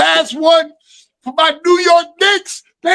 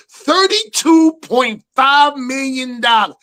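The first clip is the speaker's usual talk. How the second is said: emphatic shout; slower than usual. Pretend. Hyping the payroll.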